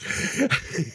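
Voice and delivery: a high, breathless mock giggle from the woman behind; retold giggle. The manager's assistant giggling at Santa's cheeky question, a high breathy giggle. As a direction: giggle it the way she did, mostly breath. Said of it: "And she's going".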